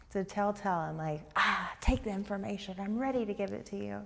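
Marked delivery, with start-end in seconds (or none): 1.3-4.0 talking fast. Retold or imitated. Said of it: "I'm talking fast".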